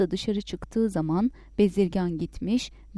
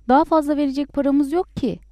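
raised voice, louder and higher, a touch of panic; alarmed shout; 5 semitones higher, 6 dB louder, faster than usual. A narrator's reading. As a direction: cry out in alarm, without a full yell. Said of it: "diye bağırdı". (telaşla bağırarak)

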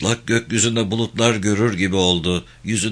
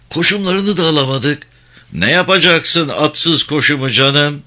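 exasperated comrades; 6 semitones higher, 5 dB louder than usual. Acted. Soldiers bickering over lost harness.

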